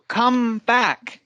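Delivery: slow, spaced "come BACK", weight on back; stress on BACK. Shown as a demonstration. Teacher echoes a student's example of a phrasal verb, stress on BACK. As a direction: say "come back" slowly, landing on back. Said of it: "Okay, so in this case".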